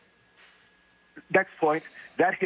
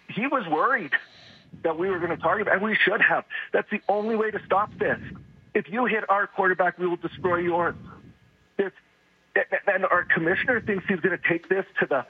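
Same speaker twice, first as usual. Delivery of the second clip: worked-up, higher-pitched ranting; impassioned venting; 4 semitones higher than usual. Real, not acted. Caller demanding payback for hits on quarterback, impassioned venting. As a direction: argue it passionately, pitch riding up. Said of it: "I can hear your passion".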